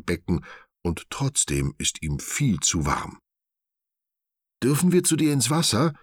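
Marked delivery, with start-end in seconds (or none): 4.6-5.9 high, quick cartoon-animal voice; lively kids' animal chorus; eager little animals. A narrator's reading. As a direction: ask sweetly like small excited critters. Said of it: "fragen Martha, Hicks und Rocky".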